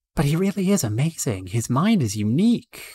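energetic, high-pitched policewoman character voice. In a corner, Matsuda Midori talks to Tsugo about the man; energetic Matsuda Midori voice. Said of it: "Energetic but sometimes emotional. / while acting disapprovingly towards a woman also wearing a police uniform. / Energetic but sometimes emotional".

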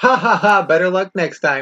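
high, jeering, taunting laugh, disembodied-sounding. A game narrator voices a voice from an empty chest, mocking laughing voice. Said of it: "The voice just kind of laughs at you and goes".

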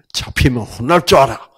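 loud, fast, angry, threatening tone. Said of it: "두려운 말씀, 화난 말씀".

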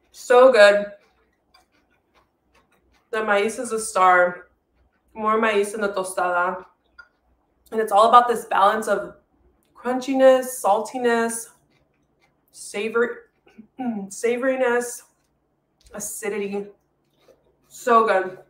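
speaking with mouth full of food, chewing. Cooking demo host takes a bite and comments: talking with mouth full. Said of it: "talk with my mouth full".

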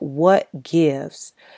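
ordinary talk

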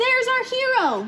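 joyful, jubilant shout, very high-pitched. A boy in a crowd outside spots the hero: jubilant shout. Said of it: "the boy shouted jubilantly".

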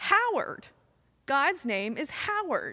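put-on little girl's proud, certain, confident full-lung shout. Retelling a little girl's answer before the congregation, imitating a girl shouting. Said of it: "shouted at the top of her lungs".

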